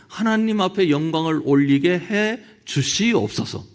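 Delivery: put-on churchy pleading prayer voice; pious habit voice. Shown as a demonstration. Preacher mocking the habitual prayer, churchy pleading. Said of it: "이 입버릇이 돼버렸어요".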